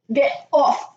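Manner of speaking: high panicked shout; screaming at a spider. Real, not acted. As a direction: yell at it to get off. Shooing the spider away.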